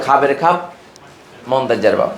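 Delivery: light Noakhali dialect saying, lightly voiced. Teacher explains saturation with a Noakhali dialect saying, light Noakhali lilt. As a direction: toss off the Noakhali rhyme, a touch of Noakhali. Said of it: "নোয়াখালীর ভাষায় বলি".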